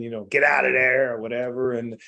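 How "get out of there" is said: loud call to get out; urgent shouted warning; retold yell. Friend on phone warning him, loud yell. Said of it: "he yelled at me".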